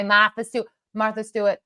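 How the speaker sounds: "Martha Stewart" in thick Boston accent. Shown as a demonstration. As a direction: drop the r's, Boston style. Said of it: "my Boston accent, you hear my".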